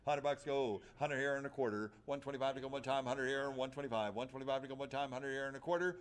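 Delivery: rapid auction bid chant; auctioneer. Acted. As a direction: rattle off the bids. Auctioneer calling bids.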